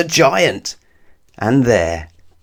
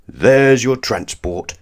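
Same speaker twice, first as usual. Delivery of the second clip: giant voice; 4 semitones higher, 4 dB louder, slower than usual. Acted.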